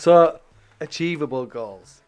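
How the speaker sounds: slow, still laughing. Real, not acted. Laugh heard, wrapping up.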